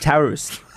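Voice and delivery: "toast" as Aussie "taoost"; Australian pronunciation. Shown as a demonstration. Cohost repeating the accent lesson, Australian pronunciation of "toast". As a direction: widen the vowel in "toast" to Australian "ow". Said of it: "he'd say it like".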